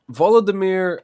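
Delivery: Volodymyr high and loud, sounded out VAH-lo-duh-meer; careful name pronunciation. Real, not acted. Co-host introducing the president, Volodymyr carefully sounded out. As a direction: sound out Volodymyr with a strong first syllable. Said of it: "I wanna make sure I say this right".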